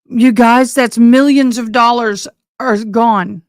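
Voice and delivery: loud, stunned burst to the viewers; real shock breaking through; shocked outburst. Real, not acted. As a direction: blurt it out in disbelief. Shocked at destroyed stage.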